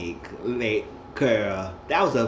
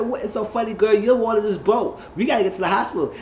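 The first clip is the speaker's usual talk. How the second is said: raised, high questioning; mock alarm at someone laughing; acted incredulous urgency; 9 semitones higher than usual. Acts alarmed reaction to her laughing.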